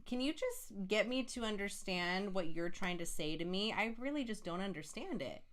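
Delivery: acted sweet, patient plea; gently demonstrating a nice tone of voice. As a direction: ask it sweetly, like coaxing a partner. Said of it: "If you're sweet and not a jerk".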